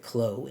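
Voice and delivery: "Chloe" cut to one syllable, like "Klo"; one-syllable pronunciation. Shown as a demonstration. Reviewer wondering how the film says the name, "Chloe" as "Klo". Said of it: "or do they c-, just pronounce it".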